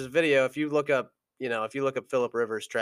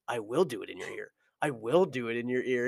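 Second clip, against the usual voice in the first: defiant retort; 2 semitones lower, 5 dB quieter, faster than usual. Retold or imitated. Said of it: "He's like".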